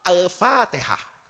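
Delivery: "Al-Fatihah" stretched slowly, every syllable drawn long; drawn-out recitation. Retold or imitated. Sheikh solemnly announces Al-Fatihah to the stranger, slowly drawn out. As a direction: draw out "Al-Fatihah" slowly and deliberately. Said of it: "itu langsung ngomong".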